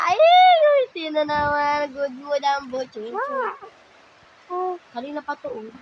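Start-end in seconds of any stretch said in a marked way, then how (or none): 0.1-3.1 tender delight. Real, not acted. Delighted at baby smiling again.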